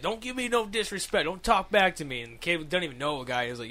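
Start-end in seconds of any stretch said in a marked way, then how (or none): 0.0-2.2 put-on cranky old neighbor.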